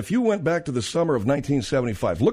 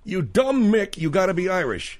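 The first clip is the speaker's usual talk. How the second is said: big bar guy; 6 semitones higher than usual. Retold or imitated. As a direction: sneer it like a burly drunk. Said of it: "repeats the bar guy".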